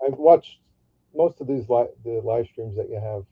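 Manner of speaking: muffled, like through a wall; as if behind a closed door. Real, not acted. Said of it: "you sound muffled".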